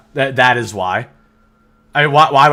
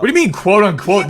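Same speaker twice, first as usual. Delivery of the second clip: incredulous shout; 7 semitones higher than usual. Real, not acted.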